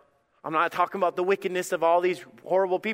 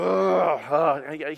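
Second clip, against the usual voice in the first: grumbling groan. Retold or imitated. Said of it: "You're sitting there going".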